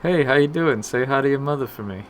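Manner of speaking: a hint of the SNL Wahlberg bro greeting; light Boston-bro impression of Wahlberg; SNL Mark Wahlberg. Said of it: "the S N L interpretation of Mark Wahlberg".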